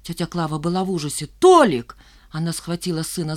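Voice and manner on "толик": high, loud sharp call; shout. A narrator's reading. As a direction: stop the son. Mother shouts at son.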